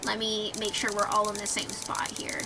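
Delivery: whispering. Real, not acted. Whispered aside while gaming.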